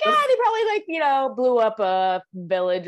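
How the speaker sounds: lightly voiced past self; imitating her own guess. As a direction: squeak out the naive guess. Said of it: "I was like".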